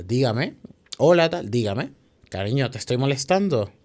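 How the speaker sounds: sugary, eager to please; overly sweet phone greeting. Retold or imitated. Tenant answering the landlady's call, overly sweet.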